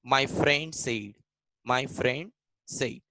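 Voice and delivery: each word drawn out slowly for the class; slow, careful dictation voice. Shown as a demonstration. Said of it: "teacher dictating example sentence".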